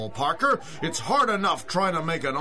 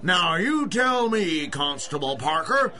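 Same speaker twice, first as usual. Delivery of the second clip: angry shouting. Acted. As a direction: yell it at the cop in disbelief. Owner yells at constable.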